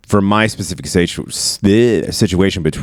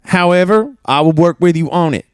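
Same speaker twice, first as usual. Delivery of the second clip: put-on Italian chef accent; 10 semitones higher than usual. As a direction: play a proud Italian chef in a thick Italian accent. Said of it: "start an Italian accent".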